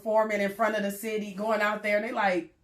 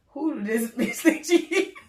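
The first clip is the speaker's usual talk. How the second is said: mocking crowd; 5 semitones higher, 4 dB louder than usual. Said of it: "everybody was like".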